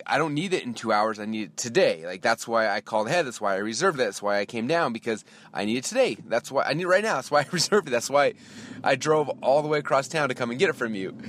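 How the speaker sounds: insistent retold complaint, pitch jumping midway; mild exasperation. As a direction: pile up the reasons, mildly exasperated. Acted quarrel with rental clerk.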